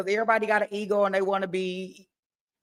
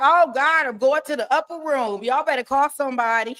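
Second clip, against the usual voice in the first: mock distraught; 6 semitones higher than usual. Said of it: "I'd be like".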